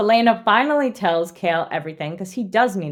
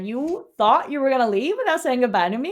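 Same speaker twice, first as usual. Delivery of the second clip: higher, playfully affronted retelling; mock indignation; 3 semitones higher than usual. Prince catches heroine leaving without goodbye, mock indignant. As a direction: confront her with hammed-up offence. Acts out Dorian confronting her.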